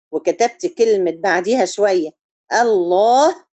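ordinary talk

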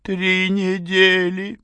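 high, slow, rising "недели"; dejected. A narrator's reading. Mother admitting to father, slow sad confession. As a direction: confess it sadly. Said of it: "сокрушенно проговорила мать".

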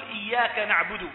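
إياك said with a held, doubled y; stretched, stressed y in إياك. Shown as a demonstration. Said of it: "إياك بالتجديد".

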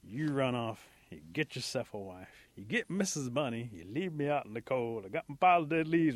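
aggrieved grumbling list of complaints. Acted. Possum complains to Rabbit about being left, grumbling. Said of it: "Possum's really grumbling".

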